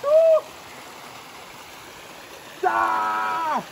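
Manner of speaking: sharp gasps from the cold; gasping in icy wind. Real, not acted. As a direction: gasp at the freezing water. Stepping into icy water.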